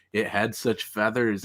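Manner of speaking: slow drawn-out explorer quote. Retold or imitated. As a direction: say it slowly as a jungle witness. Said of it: "none of those people are ever like".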